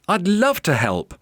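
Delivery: lightly acted boyish excitement; excited cry. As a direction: accept the offer keenly. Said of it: "cried Dominic".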